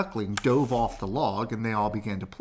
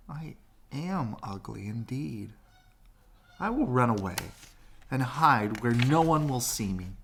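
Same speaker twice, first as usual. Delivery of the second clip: lightly voiced sad duckling; 2 semitones higher than usual. Duckling to himself, deciding to run away, lightly sad. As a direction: play the hurt little duckling. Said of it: "cried the ugly duckling".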